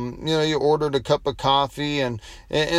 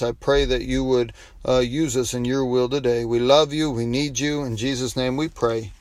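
closing prayer. Acted.

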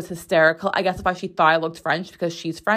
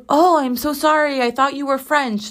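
higher-pitched imitation of an apologetic nail lady; 7 semitones higher than usual. Nail lady apologising to her customer, lightly imitated apology. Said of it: "And she's like".

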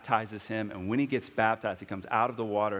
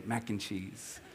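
much softer, hushed dad's secret; whispered secret; 8 dB quieter, slower than usual. Retold or imitated. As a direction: murmur it into her ear. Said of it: "And I'll whisper".

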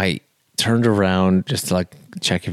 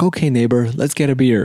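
lightly mimicked eagerness, pitched higher; retold keen invite in a raised pitch; eager drunk neighbor; 5 semitones higher than usual. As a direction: imitate a chummy, insistent invitation. Drunk man eagerly pushes for beer.

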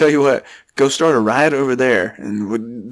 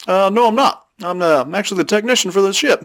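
alien voice; 7 semitones higher than usual. Pretend. Alien technician answers.

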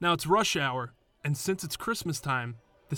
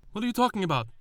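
much higher, indignant cab driver; baffled cabbie; 8 semitones higher, 3 dB louder, much faster than usual. Retold or imitated. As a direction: throw it back in disbelief. Confused cabbie in a quarrel.

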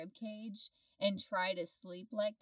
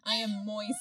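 laughing; 6 dB louder than usual. Real, not acted. Joking about the hot closet.

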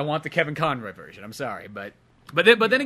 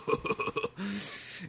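soft, voiceless mock guffaw; imitated Viking laughter; 6 semitones higher, 8 dB quieter than usual. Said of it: "all the Viking guys are like".

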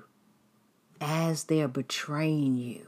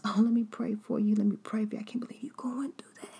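much higher, gushing mock-concerned friend voice; fake sympathetic friend; 12 semitones higher than usual. Preacher mocking a betrayer consoling the victim, high gushing fake sympathy. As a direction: ham up a two-faced friend oozing fake sympathy. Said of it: "They were the ones".

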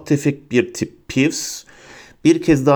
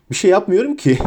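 high-pitched giggly protest; giggling; 6 semitones higher than usual. A narrator's reading. Prankster ghost denies doing anything, high giggling voice. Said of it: "diye kikirdedi Peeves".

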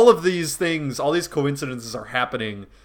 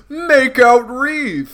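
booming higher chief command; 11 semitones higher, 8 dB louder, much slower than usual. Retold or imitated. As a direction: call it out like a hammy chief. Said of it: "He's the guy who says".

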